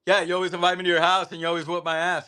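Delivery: high, fast mock complaint; whiny cousin. Imitating his sore-loser cousin, high and fast. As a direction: rattle off a sulky kid's gripe. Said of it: "he was like".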